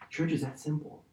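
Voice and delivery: soft emphasis. Shown as a demonstration. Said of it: "guys, listen".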